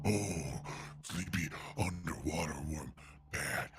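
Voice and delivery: low, hushed whisper; wildlife watching whisper. Acted. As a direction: whisper so you don't wake it. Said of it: "we gotta whisper".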